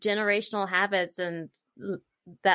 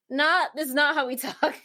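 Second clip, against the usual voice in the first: amused dismissal; 7 semitones higher than usual. Retold or imitated. Voicing mom's dismissal.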